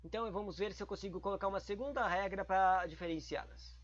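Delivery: ordinary talk, nothing marked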